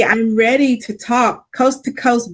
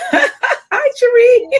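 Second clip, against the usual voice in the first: high, loud delighted hello; squealing hello to a friend; excited greeting; 14 semitones higher, 3 dB louder, much slower than usual. Real, not acted. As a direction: call out a happy hi.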